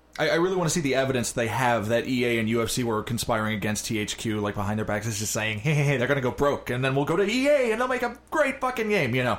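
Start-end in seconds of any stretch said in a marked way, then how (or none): 5.6-9.4 put-on 1930s gangster voice and accent. Speaker acts out what EA and UFC might say, in a 1930s gangster voice. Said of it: "Exactly like that voice".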